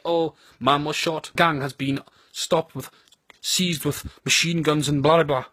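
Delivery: slow, mock-serious recital; London crime report. Reporting gun crime in London, slow mock report. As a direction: list it slowly, lightly imitating a crime report. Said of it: "You see in London and that".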